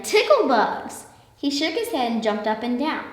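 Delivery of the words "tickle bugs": high, loud, slow yell; man yells about the bugs, loud and drawn out. A narrator's reading. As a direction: bellow it out stretched. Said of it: "yelled the man".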